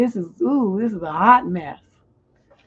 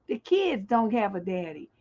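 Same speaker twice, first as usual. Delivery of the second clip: ordinary talk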